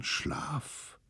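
unvoiced, faded sleepy word; soft whisper. A narrator's reading. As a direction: breathe the word as they drift off. Falling asleep.

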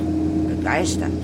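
slow, whispered savouring of the word; sly whisper. Acted. Villain savouring news, slow whispered relish.

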